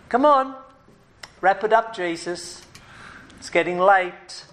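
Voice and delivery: impatient disciples. Retold or imitated. Disciples urging Jesus to finish, mild mock impatience. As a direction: nag Jesus to wrap it up. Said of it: "the disciples are going".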